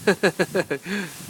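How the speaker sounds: startled whoa, then a laugh. Real, not acted. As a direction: get caught by a gust and laugh. Blast of snow hits him.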